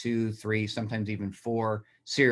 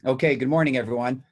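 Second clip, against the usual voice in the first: hoarse after choking on coffee; rough, raspy throat; raspy whisper; 4 semitones higher, 7 dB louder than usual. Real, not acted. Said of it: "excuse my voice".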